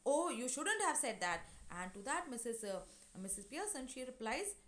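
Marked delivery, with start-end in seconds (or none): 0.1-1.4 raised, louder mild reproach; rather bold. Acted. Timid neighbour now reproaching Mrs Pearson, rather bold. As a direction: speak up boldly, lightly acted. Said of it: "but now rather boldly".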